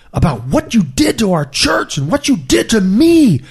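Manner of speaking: high-pitched indignant accusation; imitating aggrieved churchgoers, pitch leaping up; mock angry. Angry church people accusing their fallen pastor, mock indignant. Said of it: "people are just angry".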